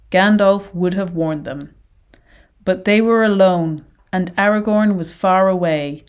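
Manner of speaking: measured literary reading aloud; story narration. A narrator's reading. Podcast host reading a favourite Tolkien quote, solemn narration. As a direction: read it evenly, pausing between phrases. Reads passage from the book.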